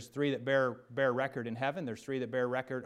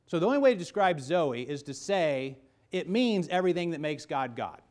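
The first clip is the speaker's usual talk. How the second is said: louder preaching; 4 semitones higher, 6 dB louder than usual. Real, not acted. Preacher builds to climax.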